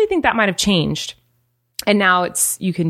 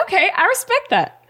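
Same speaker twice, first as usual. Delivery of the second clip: accepting; 11 semitones higher than usual. Acted. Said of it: "I'm like".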